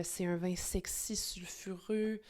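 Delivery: breathy, sultry whisper, drawn out on sulfureux; sexy whisper. Acted. Wine host whispers to viewers about a sexy wine. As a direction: whisper it like a seductive secret.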